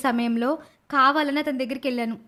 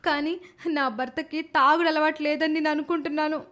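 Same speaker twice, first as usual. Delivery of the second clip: a touch of crying in the voice; a wife pleading, lightly tearful; understated weeping wife; mild tearful plea. Acted. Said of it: "అని ఎంతో ఏడుస్తుంది".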